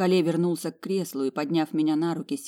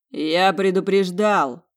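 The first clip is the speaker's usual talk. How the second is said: stern threat; 6 dB louder, slower than usual. A narrator's reading. Fiancé threatens the twins.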